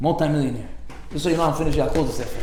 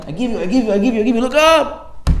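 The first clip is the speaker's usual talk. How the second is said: urging, building; 6 semitones higher than usual. Retold or imitated. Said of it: "Hashem says".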